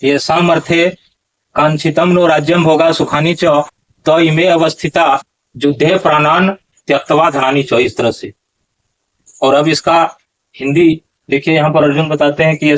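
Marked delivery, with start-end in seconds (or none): 0.0-7.7 verse recitation. Shown as a demonstration. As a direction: recite the whole shloka in one flowing line. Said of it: "एक बार उच्चारण कर लीजिए".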